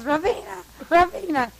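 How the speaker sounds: high, loud re-enacted name call; imitated calling out. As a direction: call after someone in the dark. Imitates Sebastian calling after her.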